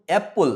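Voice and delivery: first syllable অ্যাপ of অ্যাপল stressed. Shown as a demonstration. Teacher shows pupils the clap syllable, stressed অ্যাপ in অ্যাপল. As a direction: hit অ্যাপ in অ্যাপল and let the end fall. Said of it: "অ্যাপের সময় তালি দিতে হবে".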